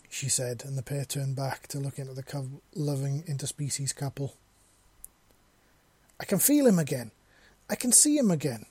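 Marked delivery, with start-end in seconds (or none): 6.2-8.6 excited yell, pitch jumping higher; sudden yell. A narrator's reading. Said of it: "Number two suddenly yelled".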